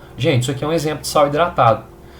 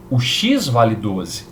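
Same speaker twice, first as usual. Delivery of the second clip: x vale doze said slowly, each word weighed; slow emphatic statement; much slower than usual. Shown as a demonstration. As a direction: land the "doze" slowly and firmly. Teacher stating the result.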